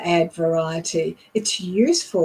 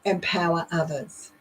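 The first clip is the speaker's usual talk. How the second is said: "empower others" set apart, falling and softer; softer, falling close on "empower others"; emphasized focus words; 6 dB quieter than usual. Shown as a demonstration. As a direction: land "empower others" softly after a pause. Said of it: "The third time I said it".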